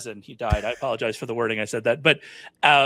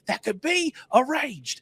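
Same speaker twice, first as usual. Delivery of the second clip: much higher, slow, hammed-up bad British villain line; Tim Curry British accent; 11 semitones higher, slower than usual. Fan quoting a favourite movie villain, in a bad British accent. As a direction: camp it up in an over-the-top British accent, drawn out. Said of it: "That's a terrible British accent".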